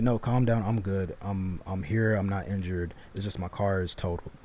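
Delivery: low, soft retold reassurance; calm reassurance. Man calming his panicking fiancee by phone, calm. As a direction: talk her down calmly and quietly.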